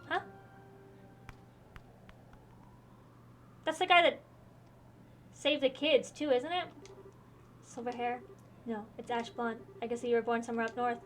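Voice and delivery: lightly voiced game characters in a dueling scene; reading game dialogue aloud. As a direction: read each character's line with mild drama.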